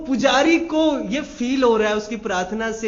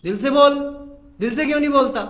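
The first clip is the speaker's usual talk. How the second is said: forceful urging; 6 semitones higher, 6 dB louder, faster than usual. Real, not acted.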